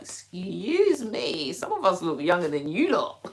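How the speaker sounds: mock outrage at being called old; sassy comeback. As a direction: draw out excuse me in playful indignation. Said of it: "I'm just like".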